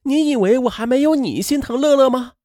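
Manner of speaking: high-pitched indignant comeback; sharp retort. A narrator's reading. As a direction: throw the accusation straight back. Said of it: "立刻的就反唇相讥". (拔高嗓门反唇相讥)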